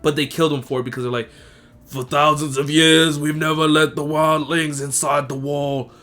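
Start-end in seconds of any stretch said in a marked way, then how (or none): 1.8-5.9 building to a shouted "Traitor!"; angry accusation. Retold or imitated. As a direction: accuse him, rising to a yell. Night's Watch accusing Jon.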